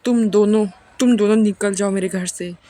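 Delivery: narrator's restrained version of yelling them out; retold shout. Grandmother throwing both women out of her house, mild retold shout. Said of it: "दादी माँ चिल्ला के बोलती हैं".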